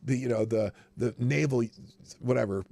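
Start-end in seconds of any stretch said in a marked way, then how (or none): 0.0-0.2 slow, drawn-out mock quote; mocking imitation. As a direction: parody her line slowly, with sarcasm. Mocks Harris's line.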